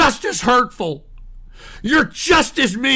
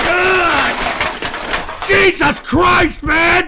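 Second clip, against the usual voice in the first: high, loud, drawn-out cursing; outraged wail; exasperated shouting; 6 semitones higher, 4 dB louder, much slower than usual. Real, not acted. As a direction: yell it out in real exasperation. Host erupts over spliced prank call.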